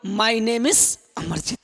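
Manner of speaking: My name is Amarjeet said slowly, falling on my; slow model sentence. Shown as a demonstration. Teacher modelling self-introduction for students, slow. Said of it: "अब बोलोगे".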